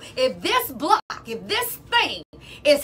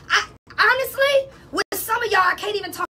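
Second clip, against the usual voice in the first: exasperated cry; 5 semitones higher than usual. Real, not acted. Exasperated with unprepared listeners.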